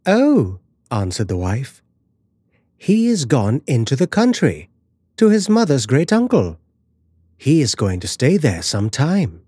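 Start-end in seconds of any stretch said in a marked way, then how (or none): 0.1-0.6 high, dismissive "oh"; airy wife. Acted. Wife lies breezily to her husband. 2.8-9.4 a touch of casual reassurance, pitched up; lightly voiced airy wife. Wife lies breezily to her husband.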